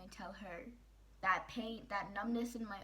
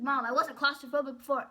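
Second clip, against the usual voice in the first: loud, higher retold shout at mom; yelling at mom; 6 semitones higher, 16 dB louder than usual. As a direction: throw it back at her, full voice and higher. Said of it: "I'm yelling at my mom about this".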